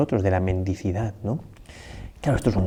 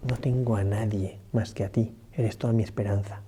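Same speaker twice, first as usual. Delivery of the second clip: más suave, como una plegaria íntima; oración humilde; 5 dB quieter than usual. Acted. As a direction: rezarlo en voz baja, entregándose. Oración de entrega de la viuda. (la viuda reza al Señor: suave y humilde)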